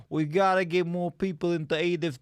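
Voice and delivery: hammed-up New York boss accent; thick American accent. Comedy host plotting like a mobster, thick American accent. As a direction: give orders in broad New York. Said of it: "we just did our thick best American accents".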